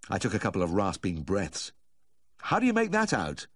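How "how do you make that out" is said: put-on a tipsy old man begging for help; drunken old Yorkshireman. A narrator's reading. Humphrey voice continued.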